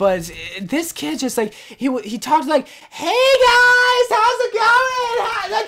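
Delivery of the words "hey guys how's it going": "guys" stretched out, high and slow. Speaker recalls how a kid talked, imitating the kid's greeting. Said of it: "he talked literally like that".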